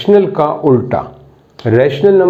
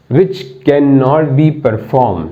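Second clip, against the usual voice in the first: reads the definition out word by word, very slow; slow dictating teacher; slow dictation; much slower than usual. Shown as a demonstration. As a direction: dictate it so students can write.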